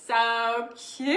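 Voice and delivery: drawn-out gush rising into a squeal; voice going up with excitement. Real, not acted. Host too excited about the strawberry, voice going up. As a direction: let the voice shoot up on cute. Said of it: "when my voice starts going up".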